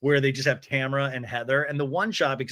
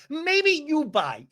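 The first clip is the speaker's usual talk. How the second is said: higher, very slow sing-song mimic of a curt line; mocking imitation; 13 semitones higher, much slower than usual. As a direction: draw out every word even more. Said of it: "she goes".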